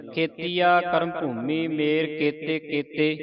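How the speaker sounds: slow chant with the wrong pause after ਮੇਰ. Shown as a demonstration. Teacher shows students the common wrong pause. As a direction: demonstrate the wrong break: pause after ਮੇਰ, then ਕੇਤੇ ਕੇਤੇ run together. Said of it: "ਇੱਥੇ ਮੇਰ ਤੇ ਲਾ ਦਿੰਦੇ ਆ ਵਿਸਰਾਮ".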